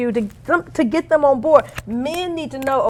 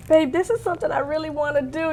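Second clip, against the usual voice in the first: a light coaxing whine; little whiny voice; 4 semitones higher, 4 dB quieter than usual. Retold or imitated. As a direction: softly plead like a spoiled wife. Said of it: "I get that little whiny voice".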